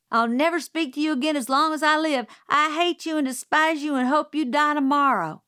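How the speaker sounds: high, loud, fast outburst; girl screaming hatred at her uncle after a spanking; furious child. A narrator's reading. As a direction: hurl it at him in a rage. Scout yells at Uncle Jack.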